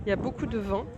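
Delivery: muffled through a face mask. Real, not acted. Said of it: "je suis, euh, avec le masque".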